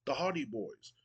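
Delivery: hyped Matt Hardy. Acted. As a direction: brag to the crowd and call out rivals. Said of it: "He goes".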